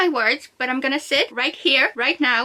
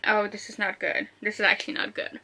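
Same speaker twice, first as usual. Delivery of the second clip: soft, worried aside to oneself; real dread; 3 semitones lower, 6 dB quieter than usual. Real, not acted. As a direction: say it quietly, dreading what comes. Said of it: "I'm actually scared".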